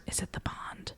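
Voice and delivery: soft breathy whisper; urgent motherly whisper. Retold or imitated. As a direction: whisper it close to his ear.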